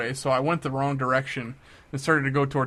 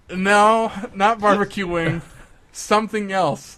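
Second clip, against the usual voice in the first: louder, higher insisting; mock insistent; 5 semitones higher, 5 dB louder, slower than usual. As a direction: push back at the chef over the noise. Insisting to the chef.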